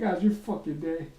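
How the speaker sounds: mock rant. Angry janitor ranting to coworker Sharon, hammed-up. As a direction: vent like a fed-up janitor at a coworker. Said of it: "I'm like".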